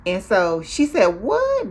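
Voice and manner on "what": very high, loud exclamation; hammed-up high-pitched disbelief; mock shock. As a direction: imitate a friend's stunned squeal. Retold shocked reaction to boxer news.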